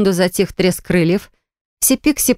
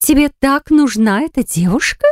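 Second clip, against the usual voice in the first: doubtful; 8 semitones higher than usual. A narrator's reading. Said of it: "С сомнением в голосе".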